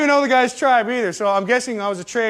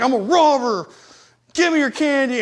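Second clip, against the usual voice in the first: higher mock hold-up voice; pretend robber; 5 semitones higher than usual. Man teasing little kids, pretend robber. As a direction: playfully demand it like a stick-up.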